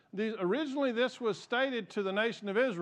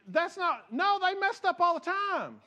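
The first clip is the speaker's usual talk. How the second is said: emphatic preaching; 12 semitones higher, 4 dB louder than usual. Real, not acted.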